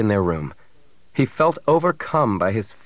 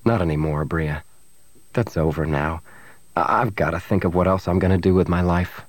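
low, subdued resignation; resigned; 4 semitones lower than usual. Acted. Man tells his girlfriend his career is over, resigned. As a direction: give up the dream, pitched down. Han gives up his dream.

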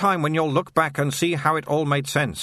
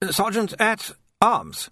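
much higher, slow and far away; distant; 9 semitones higher, slower than usual. A narrator's reading. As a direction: echo it absently, lost in thought. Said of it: "said Tilden distantly".

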